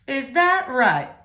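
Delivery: drawn-out, mildly curious preacher; lightly voiced preacher. Preacher answers Opal.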